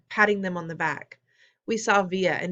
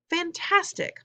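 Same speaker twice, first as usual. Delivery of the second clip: high, choked-up praise; overcome with emotion; 11 semitones higher, slower than usual. A narrator's reading. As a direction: barely get the word out, moved. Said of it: "so emotional she could barely talk".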